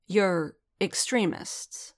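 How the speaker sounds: drawn out slow, each word weighed; slowly. Acted. Kryze lecturing Din as if he were dim, slowly. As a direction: talk down to him slowly.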